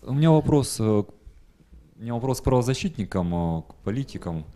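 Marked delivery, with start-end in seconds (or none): none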